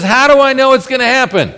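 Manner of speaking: put-on high, incredulous whine of an old priest; hammed-up skeptical priest; mocking doubting priest. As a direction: send your voice up, pleading and doubtful. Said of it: "he says".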